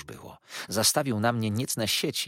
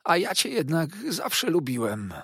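much higher, sugary servile voice; Uriah's fawning; 10 semitones higher, 4 dB louder than usual. A narrator's reading. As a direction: purr false affection. Uriah's unctuous voice. (przesłodzony, służalczy głos)

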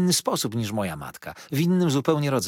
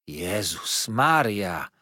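startled exclamation; 2 semitones lower, much slower than usual. Acted. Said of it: "zawołała znienacka zagadnięta Peggoty".

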